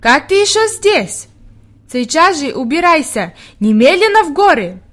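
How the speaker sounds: mildly hammed-up exclaiming order; mock shouting. A narrator's reading. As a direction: imitate the impatient doctor ordering her out. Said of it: "сразу же кричит".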